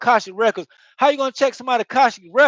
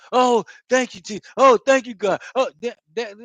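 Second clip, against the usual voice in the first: mock begging thanks; 3 dB louder than usual. Imitating someone begging God with endless thanks. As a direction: overdo the gratitude, pleading. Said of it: "God don't want you begging him".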